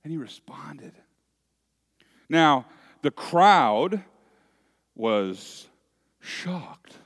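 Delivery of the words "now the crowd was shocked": a hint of a prim, genteel society lady; mildly hammed-up posh gasp of shock; country club voice. Shown as a demonstration. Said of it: "That's my country club voice right now".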